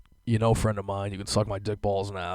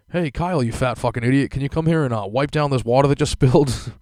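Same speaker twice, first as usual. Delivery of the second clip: louder, rude barked command; mock bossy order; 4 semitones higher, 6 dB louder than usual. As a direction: bark it like a crew boss. Mock crew boss on walkie.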